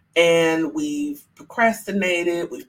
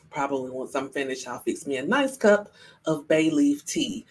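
usual speaking voice

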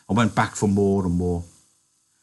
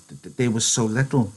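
apologetic; 3 semitones higher than usual. Acted. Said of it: "he said apologetically".

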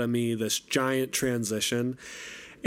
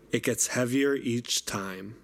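reading lyrics. Shown as a demonstration. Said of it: "I'm just gonna read those lyrics for you".

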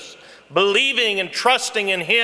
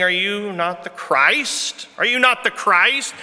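mocking taunt, rising higher on the repeat; mocking criminal; 4 semitones higher than usual. Mocking criminal taunts Jesus from the cross, sneering. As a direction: sneer the question up at him. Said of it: "mocked Jesus".

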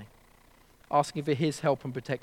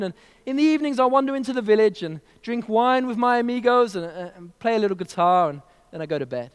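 put-on Mexican accent; 3 semitones higher, 4 dB louder than usual. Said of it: "Mexican accent".

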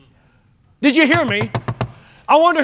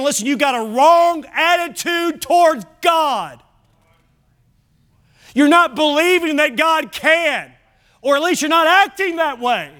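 firm rebuke; 5 semitones higher than usual. Acted. Paraphrasing Jesus' rebuke.

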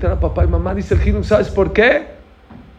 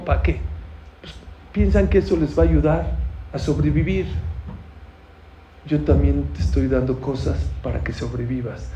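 tender father; 3 semitones lower than usual. Acted. Father gently teaches his son.

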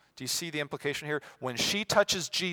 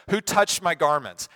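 loud, raised-pitch demand; calling out; 5 semitones higher, 9 dB louder than usual. Acted. Jesus questioning the crowd, loud demand.

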